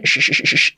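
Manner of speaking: "sh" hissed as a voiceless sound, repeated. Shown as a demonstration. English teacher isolating the first sound of should, repeated voiceless "sh". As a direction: give short, separate bursts of "sh". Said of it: "S H".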